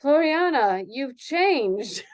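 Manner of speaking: hesitant, shaken sister; stammering sister. Acted. Sister stammers at the changed dancer, shaken. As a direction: stammer it out in disbelief. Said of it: "Missus Fenimore stammered".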